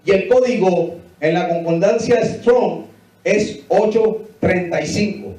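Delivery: ordinary delivery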